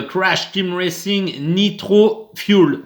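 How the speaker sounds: careful, slow English pronunciation with a French accent. Real, not acted. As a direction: pronounce the English title slowly in a French-tinged English accent. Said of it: "bel accent anglais, mais je l'ai bien prononcé". (accent anglais appliqué, à la française)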